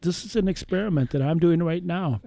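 talking through a mouthful of chips; chewing while talking; crunching chips. Real, not acted. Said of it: "hear me crunching away on this potato chip".

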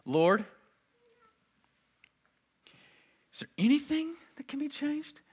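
high, loud, desperate begging; anguished plea. Acted. Jesus begging the Father to change the plan, anguished. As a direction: plead as if the weight is unbearable. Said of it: "Jesus is asking if it's possible".

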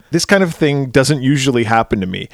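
quoting the line fairly straight; plain quoted line; exact movie quote. Retold or imitated. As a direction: read the line as the film says it. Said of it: "This is an exact quote".

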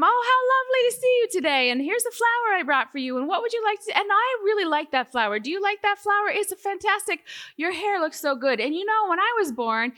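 high, fast, bubbly Cockney chatter in one breath; Cockney hairdresser. Retold or imitated. Cheerful Cockney hairdresser greeting the speaker, high and fast run-on. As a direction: gush in Cockney like a happy Mary Poppins. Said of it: "She had this kind of Cockney accent".

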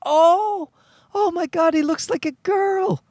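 very high-pitched imitation of amazement; shocked nanny. Nanny realizing the baby is a boy, mock shock.

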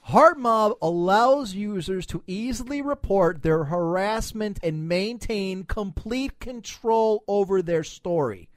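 slow, deliberate read-out; reading aloud. Real, not acted. Host reading a site's pitch to co-hosts, deliberate read-out. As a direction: read it out slowly, word by word. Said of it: "now I'm reading this".

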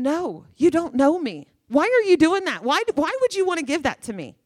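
anguished protest. Retold or imitated. Man fighting off the gift.

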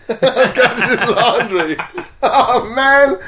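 high, loud wail through laughter; laughing dismay. Real, not acted. Traveler facing laundry before an early train, laughing in dismay. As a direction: groan about it loudly while cracking up.

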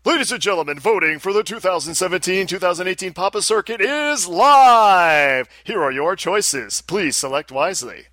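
booming ring announcer, hyping the crowd; fighting game announcer calling out choices. Shown as a demonstration. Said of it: "announcer voice".

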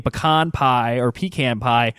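pecan said as pi-KAHN pie, then as PEE-can pie; standard pecan. Shown as a demonstration. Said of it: "instead of saying".

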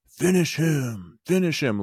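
slow, high mock yell, drawn out; hammed-up booming video game yell. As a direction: bellow it like a fight announcer egging her on. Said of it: "in a huge booming voice yelling".

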